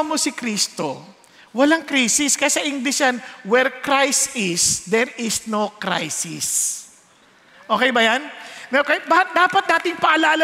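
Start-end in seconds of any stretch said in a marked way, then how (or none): 3.5-6.7 slow emphatic motto. Shown as a demonstration.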